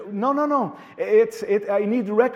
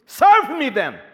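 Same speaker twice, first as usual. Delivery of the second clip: voice of the Lord; slower than usual. Retold or imitated. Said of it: "And Lord's gonna say".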